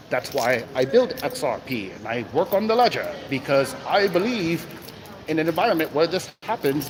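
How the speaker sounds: hammed-up British-Australian accent; clumsy attempt at British or Australian; worst British accent. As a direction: quote him in a bad British accent. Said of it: "in my worst British accent or Australian accent".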